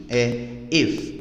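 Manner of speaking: "if" said with a closed e vowel, like "ef"; closed-e "if" model. Shown as a demonstration. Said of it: "esse I com o som de E fechado".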